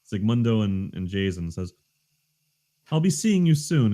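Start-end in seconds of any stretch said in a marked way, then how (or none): 2.9-3.9 menacing NPC. Acted. GM voices NPC parting threat.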